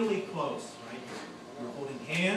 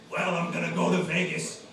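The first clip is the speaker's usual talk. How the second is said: brash honest chef; 5 dB louder than usual. Retold or imitated. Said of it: "What are you gonna do with the money?".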